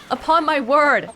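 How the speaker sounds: slow, drawn-out "Upon my word"; mock Victorian gasp. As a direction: let it out on a slow gasp of astonishment. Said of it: "gasped Filson".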